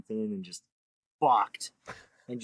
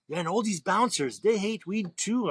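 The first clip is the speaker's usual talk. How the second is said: mock bar dude; 8 semitones higher, 4 dB louder than usual. Voicing bar dude's reply.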